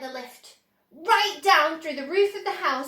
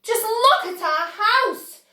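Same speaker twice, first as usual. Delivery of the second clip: higher, louder and slow; dismayed cry; 9 semitones higher, 7 dB louder, slower than usual. A narrator's reading. Mister Bucket crying over his ruined house, dismayed. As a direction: wail it in dismay. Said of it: "cried poor Mister Bucket".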